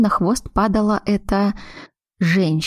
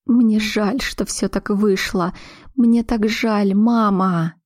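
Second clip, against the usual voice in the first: sobbing apology; 3 semitones higher, much slower than usual. Acted. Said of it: "всхлипнула".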